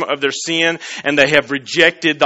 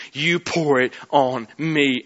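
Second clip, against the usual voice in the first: hushed plea; 4 semitones lower, 7 dB quieter, slower than usual. Acted. Jesus voiced pleading to Father.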